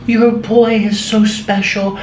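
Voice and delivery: put-on old lady praising the boy to his mom, slow and doting; sweet old lady. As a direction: gush slowly like a sweet elderly lady. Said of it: "cute senior citizens would come up".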